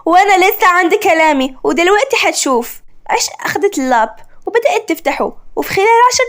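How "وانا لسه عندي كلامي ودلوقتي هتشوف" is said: irritated. Acted. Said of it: "عشق بغيظ".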